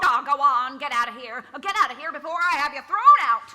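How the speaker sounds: angry order. Acted. Psychologist orders Kris out.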